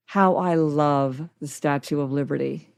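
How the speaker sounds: low, hushed fondness; tender affection. Real, not acted. Traveler spotting a beloved landmark from the plane, tender. Declaring love for beloved sight.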